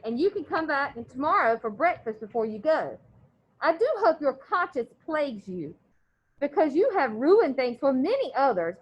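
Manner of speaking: steady read-aloud voice for the class; story read aloud. A narrator's reading. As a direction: read the chapter to the students. Teacher reads novel aloud.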